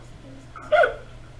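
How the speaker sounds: sharp high unvoiced hiccup; a sudden involuntary hiccup. Real, not acted. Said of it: "I have the hiccups".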